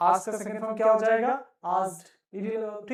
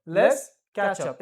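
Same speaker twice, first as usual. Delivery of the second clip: slow, louder model take; slow, louder repeat; 4 dB louder, much slower than usual. Shown as a demonstration. Teacher repeating slowly so students copy. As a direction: stretch it out for the class. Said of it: "फिर से बोलो".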